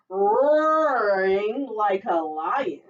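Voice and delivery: roaring. Acted. Loud slow roar.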